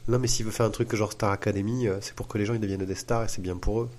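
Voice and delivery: put-on dopey Marseille accent, lightly done; playing dumb in a Marseille accent. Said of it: "je prends un accent marseillais".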